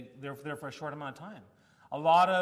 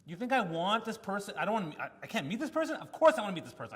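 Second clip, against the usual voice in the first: retold outburst; 3 semitones higher, 5 dB louder than usual. Patient snapping at the resident, loud indignant retelling. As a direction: replay the blow-up at the resident, louder. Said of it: "Oh man, I lost it".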